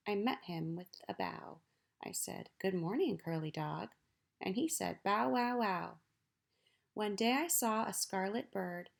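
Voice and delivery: put-on lively read-aloud for children; poem reading. Teacher reading a poem to children, lively. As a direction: read it like a picture-book poem to kids.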